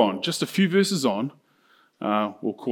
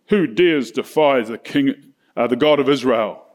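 bold challenge. Retold or imitated. David on the battlefield facing Goliath, mildly bold. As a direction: play the bold champion, lightly. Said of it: "standing really bold".

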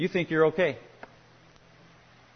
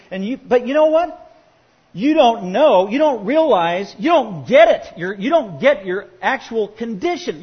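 loud, urgent rebuke, slowing on the warning; preacher voicing a loud stern Jesus; 3 semitones higher, 5 dB louder than usual. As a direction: hammer home that they don't get it.

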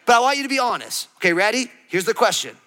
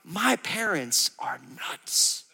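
laughing mock quote; 3 semitones lower, 6 dB quieter, much slower than usual. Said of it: "your kids are like".

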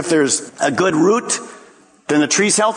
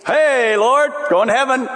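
breezy believer; 8 semitones higher than usual. Retold or imitated. Mock believer to the Lord.

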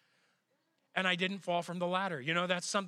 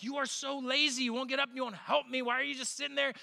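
higher, accusing rant; mock angry wife; 6 semitones higher than usual. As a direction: snap at the lazy husband. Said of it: "She's like".

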